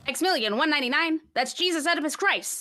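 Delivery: lightly voiced cheeky cabbie; sassy cab driver. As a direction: toss it off with a bit of sass. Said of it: "Sassy cab driver".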